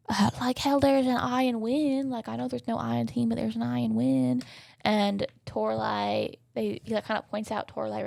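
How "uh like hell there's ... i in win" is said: acted defiant retort. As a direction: argue back in a hammed-up retort. Acts out Operetta's heated comeback.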